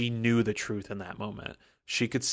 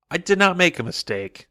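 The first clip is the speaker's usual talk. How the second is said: booming declaration; 8 semitones higher, 8 dB louder than usual. Retold or imitated. Lord Ruler declares to Inquisitor.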